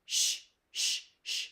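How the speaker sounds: unvoiced hushing sh; quiet shushing sh; whispered sh sound. Shown as a demonstration. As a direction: breathe out a soft shh. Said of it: "The medial sound is".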